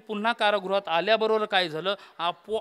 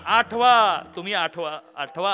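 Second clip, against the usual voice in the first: shouting; 7 dB louder than usual. Acted. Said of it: "ओरडायला लागले".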